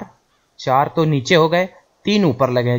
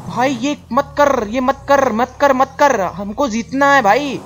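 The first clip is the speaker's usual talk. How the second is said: high, slow begging with the truck; desperate pleading with the stuck truck; 5 semitones higher, slower than usual. Real, not acted. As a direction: beg the truck not to give up.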